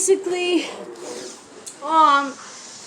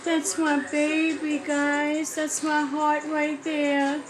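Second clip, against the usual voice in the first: tender; 4 dB quieter than usual. Real, not acted. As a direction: soothe him gently with love. Tender words to crying baby.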